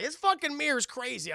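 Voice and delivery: high loud nervous voice; alarmed. Retold or imitated. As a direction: say it freaked out. Gargoyles alarmed by the mirror.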